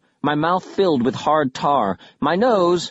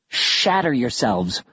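snapped; slower than usual. Acted. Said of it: "Bastille snapped".

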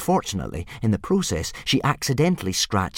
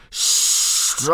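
screamed. Acted. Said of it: "screamed Gobber the Belch".

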